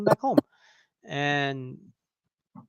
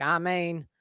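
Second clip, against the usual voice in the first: mock Southern; 3 semitones higher than usual. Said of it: "he would say".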